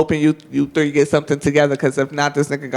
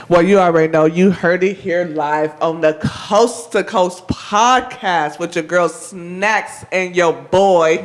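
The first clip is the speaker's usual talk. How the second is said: podcast host sign-off; slower than usual. Real, not acted. Host reads show sign-off.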